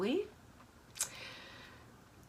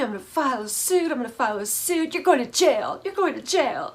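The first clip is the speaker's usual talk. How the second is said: mock screaming; 4 semitones higher, 4 dB louder, faster than usual. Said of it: "Michael starts screaming".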